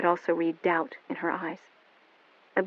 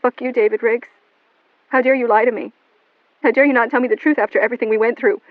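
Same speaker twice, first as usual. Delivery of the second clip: loud, higher, fast; furious; 5 semitones higher, 7 dB louder than usual. A narrator's reading. Melanie furious at David on the phone. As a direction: lash out at him.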